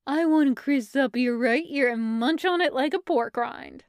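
lightly voiced doting weirdness; Stevie's weird baby talk. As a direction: relish it, half cooing, half deadpan.

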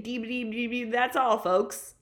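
mock Porky Pig stutter. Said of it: "Like your Porky Pig".

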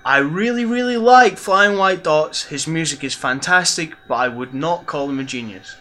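mild mock of John Shedd's measured words; plain-ish imitation of a friend; quoting John Shedd. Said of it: "And John Shedd said".

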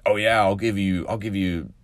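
a hint of a mob boss offering money; lightly voiced grieving mom turned gangster; mafioso mom. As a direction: mom bribing the town to kill the shark, mock mob boss. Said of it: "she's going all mafioso on this shark".

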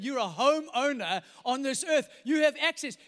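slow, loud proclamation; preaching shout. Retold or imitated. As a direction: declare it like God's promise. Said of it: "But God says".

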